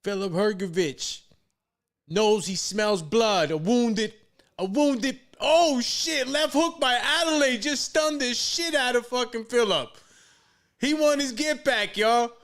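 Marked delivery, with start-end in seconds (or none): 2.1-12.3 loud excited play-by-play call; yelling from the sidelines. Real, not acted. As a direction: shout the action as it lands. Live fight call, big exchange.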